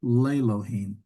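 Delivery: Lelohim said again as le-lo-HEEM; pronunciation repeated. Shown as a demonstration. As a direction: repeat Lelohim back for the class. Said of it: "it actually changes the way we pronounce the name".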